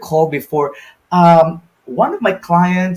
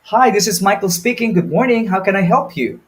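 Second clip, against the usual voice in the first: bright, higher, upbeat hello; cheerful greeting; 4 semitones higher than usual. Shown as a demonstration. Agent demonstrates an upbeat phone greeting, higher and cheerful. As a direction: sound happy to take the call. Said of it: "you can see the difference".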